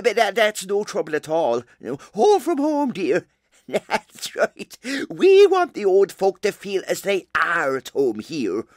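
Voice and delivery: lightly voiced nun showing visitors round; Sister Tabernacle. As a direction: play a chatty, welcoming care-home nun.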